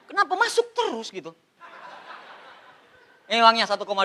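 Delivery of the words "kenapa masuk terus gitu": high, light complaining voice; mock whine. Man complaining money keeps coming in, mock whine.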